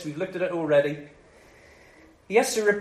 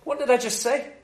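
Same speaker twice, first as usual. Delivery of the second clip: indignant; 2 semitones higher than usual. Retold or imitated. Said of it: "he's indignant by this stage".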